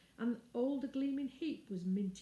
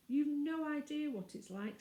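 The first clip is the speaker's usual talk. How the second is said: put-on shaken girl; 7 semitones higher, 4 dB louder than usual. Frightened girl after being buried.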